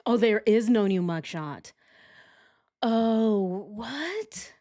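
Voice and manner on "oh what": shocked. Real, not acted. Shocked at no new mugshot.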